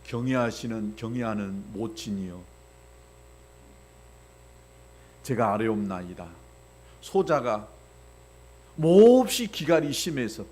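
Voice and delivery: low, stiff courtly address; archaic formal speech. Retold or imitated. Pastor mocking a child speaking to mom in archaic style. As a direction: speak like a stilted old-court son. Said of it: "이렇게만 한다고 생각해보세요".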